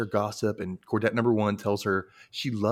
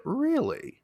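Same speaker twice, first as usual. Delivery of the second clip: mock eager question. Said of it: "Anya's like".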